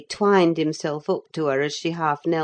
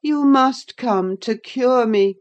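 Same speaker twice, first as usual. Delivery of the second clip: higher, slow, reproachful; a hint of a sulky invalid; 8 semitones higher, 6 dB louder, slower than usual. A narrator's reading. Linton reproaching Catherine, slow and sulky. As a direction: lay on the guilt. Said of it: "he answered".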